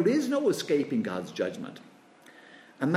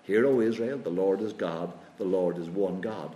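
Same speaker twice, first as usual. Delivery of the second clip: rote recital; 6 semitones lower than usual. Retold or imitated. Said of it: "they all trotted that out".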